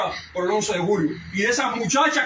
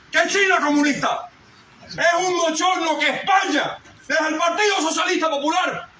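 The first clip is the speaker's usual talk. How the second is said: indignant outcry; 5 semitones higher than usual. Real, not acted. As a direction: denounce it with rising indignation. Indignant climax of political speech. (clamando indignado, cada vez más alto y fuerte)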